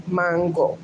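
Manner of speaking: mango as MAHN-go, Spanish accent; Spanish mango with an open AH; Spanish pronunciation. Shown as a demonstration. Insisting on her upbringing's word, Spanish accent. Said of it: "how I grew up pronouncing it".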